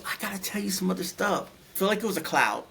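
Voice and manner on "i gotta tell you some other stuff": nurse voice. Retold or imitated. Nurse voiced in retold vision.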